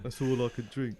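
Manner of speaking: Cockney pub customer; Cockney accent. Pretend. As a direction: play a Cockney cider drinker. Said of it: "is a Cockney one".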